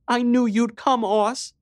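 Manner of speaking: put-on high, loud tearful girl voice; trembling little sister, relieved. A narrator's reading. Scared little sister, lips trembling.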